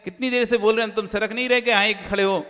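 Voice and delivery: lightly acted irritated yell; mild mock shouting. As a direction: imitate someone crossly yelling at a person in the way. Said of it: "आप उसको चिल्लाने लगे".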